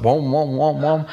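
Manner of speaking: muffled wom wom. Retold or imitated. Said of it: "it's like".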